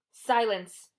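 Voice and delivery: loud, sharp snarl. A narrator's reading. Medusa silencing Annabeth, snarling. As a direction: cut her off with a snarl. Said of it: "Medusa snarled".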